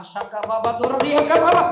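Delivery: loud burst of imitation tongues; mock tongues. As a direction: imitate someone praying in tongues. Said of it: "அந்நிய பாஷை பேசுவீங்களா?".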